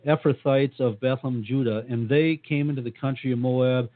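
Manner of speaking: speaking with a dry mouth; parched, sticky-mouthed reading. Real, not acted. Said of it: "I have no idea why my mouth is so dry".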